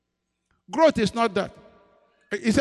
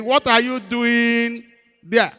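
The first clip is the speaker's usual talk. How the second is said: slow stern voice of God; 4 semitones higher, 4 dB louder, much slower than usual. Retold or imitated. Lord repeats question, slower.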